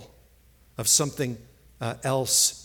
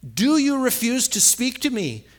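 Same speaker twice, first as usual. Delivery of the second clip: mildly indignant ruler, raised and louder; Pilate; 8 semitones higher, 4 dB louder than usual. Acted. Pilate confronting the silent Jesus, loud indignant demand. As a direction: demand an answer, pitched up. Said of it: "Pilate said".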